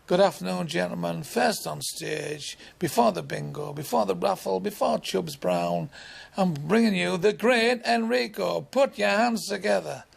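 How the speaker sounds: compere building to a big announcement. Retold or imitated. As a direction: sell the act like a club compere. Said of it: "the music starts".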